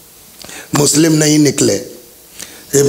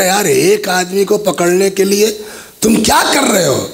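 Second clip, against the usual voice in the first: angry rebuke; 6 semitones higher than usual. Acted. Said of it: "ابن زیاد کو غصہ آ گیا".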